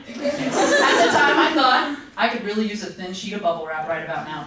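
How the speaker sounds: a clean second try at the closing joke; redone punchline. Shown as a demonstration. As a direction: drop into a low fast deadpan. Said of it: "Restart the ending line".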